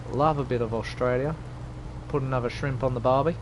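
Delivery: playful put-on Australian twang; Australian accent. Shown as a demonstration. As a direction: have a go at sounding Australian. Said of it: "I can do Australia".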